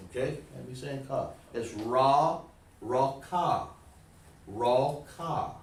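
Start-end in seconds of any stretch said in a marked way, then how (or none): 1.7-5.5 "raw ka" in two separated syllables; teacher sounding out "Raw ka"; sounded out. Shown as a demonstration. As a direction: model "raw ka" with an open, held ka and no final b. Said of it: "But you hear the ka?".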